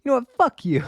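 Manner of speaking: loud, defiant curse; angry shout. Acted. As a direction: spit it at him. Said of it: "this one's for you, Ari".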